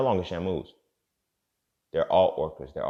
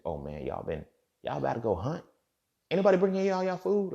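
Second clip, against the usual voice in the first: high whiny voice begging for its food; a pampered pet pleading for dinner; mock captive whale; 9 semitones higher than usual. Captive Shamu whining to keepers for food, high-pitched and pleading.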